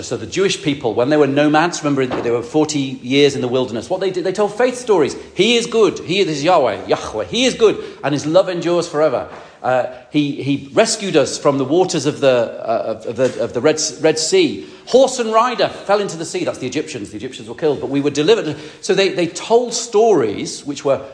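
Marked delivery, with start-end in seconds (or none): 5.3-16.4 joyful proclamation. Acted. Nomads telling faith stories.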